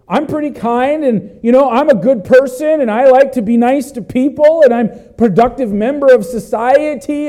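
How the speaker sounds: lightly voiced smug self-praise; a mild hint of a pleased do-gooder; self-satisfied person. Pastor mimicking people who think they're decent, mildly smug. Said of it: "Some people think of themselves as".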